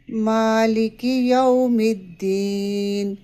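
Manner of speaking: slow, drawn-out tajweed recitation; measured Quranic chant. Shown as a demonstration. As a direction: chant each word carefully. Recites verse as model.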